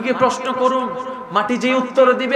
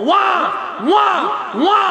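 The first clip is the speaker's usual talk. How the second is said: baby's cry imitated; 6 semitones higher than usual. Shown as a demonstration. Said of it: "ভালো করে খেয়াল কর".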